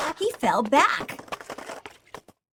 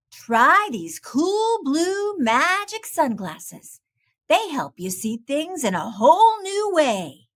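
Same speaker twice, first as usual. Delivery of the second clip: Pete the cat, encouraging; 4 semitones higher, 5 dB louder than usual. Acted. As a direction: coax a friend with a cool idea. Pete offers the sunglasses.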